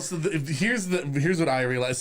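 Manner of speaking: usual speaking voice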